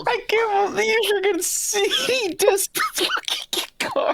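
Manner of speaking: talking through high laughter; laughing. Real, not acted. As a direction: say it while laughing hard. Laughing at the card bit.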